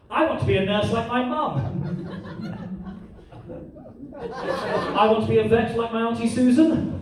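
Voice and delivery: lightly voiced kid sharing an ambition; a hint of an eager pupil; schoolchild. Children on the classroom carpet in turn, light kid voice.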